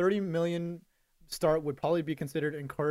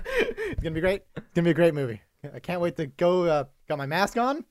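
Tom Cruise impression. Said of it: "he kinda has that sound".

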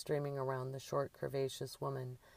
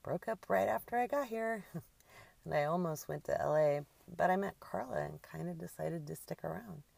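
higher, amused, laughter breaking in; still laughing; 4 semitones higher than usual. A narrator's reading. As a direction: tell it while laughing at yourself. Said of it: "Still laughing at herself".

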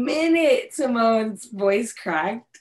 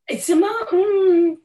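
excited laughing; 8 semitones higher, 5 dB louder than usual. Real, not acted. Emphatic pick, bursting into laughter.

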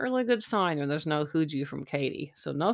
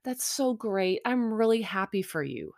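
smiley gushing; 5 semitones higher than usual. Retold or imitated. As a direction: imitate her being pleased, with a smile. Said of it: "smiles and kinda giggles".

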